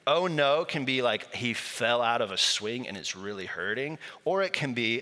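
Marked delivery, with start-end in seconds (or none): 0.1-0.7 put-on louder, higher little-kid oh no; toddler's oh no. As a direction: quote the child's catchphrase. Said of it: "it applies to everything".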